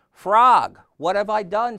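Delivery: loud, high storybook cry; anguished calling out. A narrator's reading. Toad alone on stage to Frog, crying out. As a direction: cry out for a lost friend.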